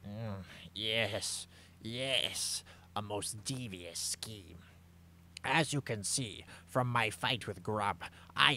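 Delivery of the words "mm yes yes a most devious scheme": soft whispered villainous scheming. Acted. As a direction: hush it like a plot.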